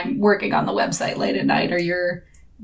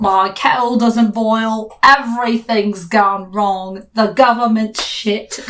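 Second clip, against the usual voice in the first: slow, louder moaning British complaint; hammed-up British grumbling; 3 semitones higher, 5 dB louder, slower than usual. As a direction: moan it out like a fed-up Brit. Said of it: "The British person would be like".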